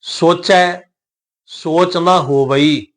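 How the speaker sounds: slow recitation with drawn-out vowels; scripture recitation. Shown as a demonstration. Teacher models the verse for learners, slow recitation. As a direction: recite phrase by phrase, stretching the endings.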